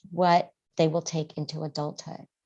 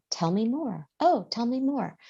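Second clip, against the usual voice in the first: gentle invitation; 6 semitones higher than usual. Shown as a demonstration. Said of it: "Just say".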